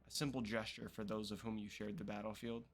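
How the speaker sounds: lightly voiced dignified elder, solemn; a hint of a noble old matriarch; elder grandmother NPC. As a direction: read it like a grateful tribal elder. Reads elder NPC dialogue.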